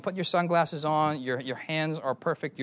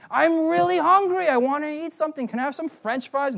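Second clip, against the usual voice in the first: put-on high pleading little-boy voice; begging little kid; 11 semitones higher, 4 dB louder than usual. Little brother begs the driver for fries, high and pleading. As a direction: beg like a small hungry child, high.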